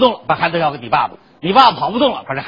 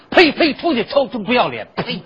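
put-on old woman scolding. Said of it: "让我们院老抠太太给轰出去了".

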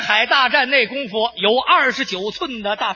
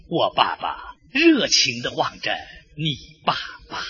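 mock-solemn narration; 13 semitones lower, 4 dB quieter than usual. Hushed, solemn mock war narration.

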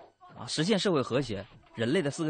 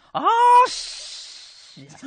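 usual speaking voice

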